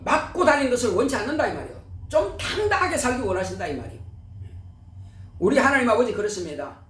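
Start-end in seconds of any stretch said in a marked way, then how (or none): none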